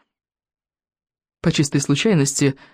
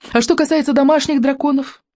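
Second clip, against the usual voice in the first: high, sly purring villain voice; gloating purr; 10 semitones higher than usual. A narrator's reading. Alvin gloating to the crowd, purring high and sly. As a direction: purr it out with nasty glee. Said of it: "злорадно промурлыкал он".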